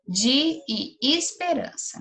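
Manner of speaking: slow, drawn-out "de e esperança" with de as "dji"; teacher stretching "de" into "dji" for the class; spelled-out de. Shown as a demonstration. Teacher showing pupils the spoken "de", slow and drawn out. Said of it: "de, de novo".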